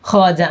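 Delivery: খাজা in two syllables, without any w; silent waw. Shown as a demonstration. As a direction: drop the w from খাজা. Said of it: "হচ্ছে না".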